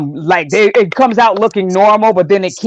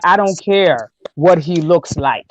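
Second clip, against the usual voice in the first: slow, measured retold reply; restrained best tone; 2 semitones lower than usual. Mother answering her husband's prying family, restrained best tone. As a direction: say it slowly, keeping anger in check. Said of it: "with the best tone of voice I could".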